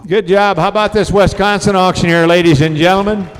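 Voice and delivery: loud crowd-rousing shout; announcer hype. Acted. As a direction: pump up the crowd. Host hyping the crowd.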